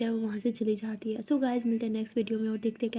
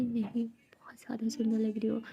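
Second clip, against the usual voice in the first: soft reply; 6 dB quieter than usual. Acted. Sulking partner answers softly.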